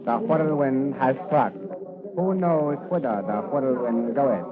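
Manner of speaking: slow, loud, solemn pronouncement; oracular proclamation. Acted. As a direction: proclaim it like an ancient sage announcing doom. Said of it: "Hey, what kind of talk is that?".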